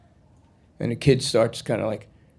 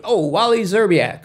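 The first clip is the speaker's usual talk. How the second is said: loud, high exclamation of delight; thrilled acted-out cop; excited recognition; 8 semitones higher, 7 dB louder than usual. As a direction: blurt the name out, high and loud. Cop excitedly recalls college player.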